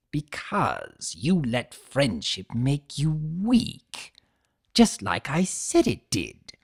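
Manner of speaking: hissed taunt. Acted. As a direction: whisper it back like a jab. T-Rex voiced in the story.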